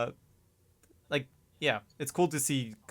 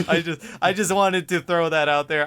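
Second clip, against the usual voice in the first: raised voice, talking over the others; loud protest; 3 semitones higher, 8 dB louder than usual. Real, not acted. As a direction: protest loudly to get the floor. Talking over co-host, defending own remark.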